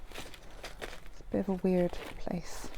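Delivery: soft, slow breathy aside; whispered aside. Real, not acted. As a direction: mutter it under your breath. Muttered aside.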